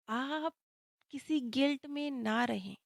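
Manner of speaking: softly voiced, lightly acted consolation; gentle reassurance. Calvin consoling Rebecca in the soul world, gently reassuring. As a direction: reassure quietly, in a hushed retold quote.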